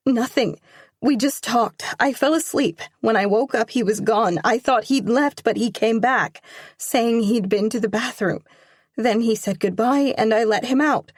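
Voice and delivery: put-on nervous teenage daughter explaining fast; anxious daughter. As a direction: plead your case to your father. Daughter explaining to her father.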